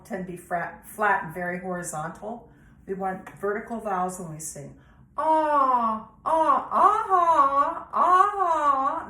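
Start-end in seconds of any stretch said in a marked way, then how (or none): 5.2-9.1 high head voice ah. Shown as a demonstration. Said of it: "That's in my head voice".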